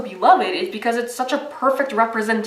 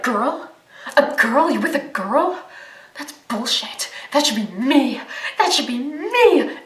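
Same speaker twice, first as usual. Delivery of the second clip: mock jealous fan; 2 semitones higher than usual. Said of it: "It's like".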